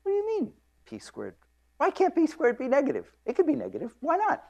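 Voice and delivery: high, cheeky student pushing back; eager student voice. Retold or imitated. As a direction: play the bright undergrad, voice jumped way up, challenging. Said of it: "And the student says".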